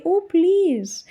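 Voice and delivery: put-on a parent waving off a child's big feelings, dismissive. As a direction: wave the child's upset away, mock dismissive. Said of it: "we shouldn't immediately say".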